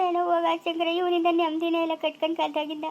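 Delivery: soft tearful complaint through sobs; crying. Acted. Wife lamenting her husband while crying softly. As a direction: weep as you grumble about him. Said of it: "ಅಳ್ಬೇಡ ಸುಮ್ನಿರು".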